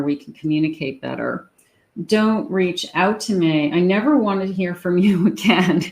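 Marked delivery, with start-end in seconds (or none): 2.1-5.8 mock breakup line. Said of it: "some of you have said this".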